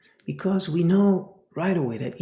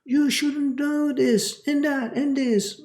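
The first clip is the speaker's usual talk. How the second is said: higher, louder, slow mock scold; higher louder I-told-you-so; scolding parent; 11 semitones higher, 7 dB louder than usual. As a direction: lecture the hurt child sternly. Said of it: "You don't tell him right away".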